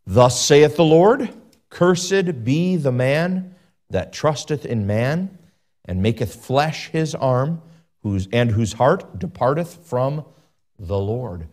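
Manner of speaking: slow, weighty King James reading; grave pulpit reading, slowed down; slow scripture reading. Acted. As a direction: let each curse land slowly. Reads Jeremiah slowly from scripture.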